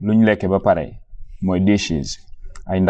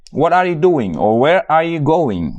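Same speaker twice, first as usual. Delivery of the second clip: asking someone; 5 semitones higher than usual. Retold or imitated. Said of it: "nit mën na laa gis".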